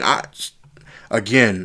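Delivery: stumbling restart on words; stuttering. Real, not acted. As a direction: trip over the start, then restart. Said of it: "I know I'm stuttering".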